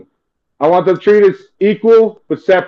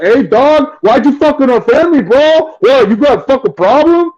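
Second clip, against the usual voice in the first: gangster cousin; 5 semitones higher than usual. Retold or imitated. Imagined gangster relative confronting him at a party, mock tough voice. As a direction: put on a tough cousin calling you out. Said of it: "I don't want them to be like".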